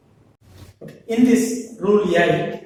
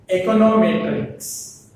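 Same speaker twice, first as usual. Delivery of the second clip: "Econometrics" stressed on "met", said louder; 4 dB louder than usual. Shown as a demonstration. Teacher models a longer word, stress on "met" in "Econometrics". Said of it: "The stress falls on the matrix".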